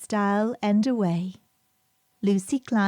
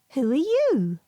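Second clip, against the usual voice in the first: put-on little girl asking; 4 semitones higher than usual. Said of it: "said Lucy".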